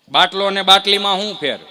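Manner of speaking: quiz question. Acted. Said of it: "કે ફરીથી બોલો તો".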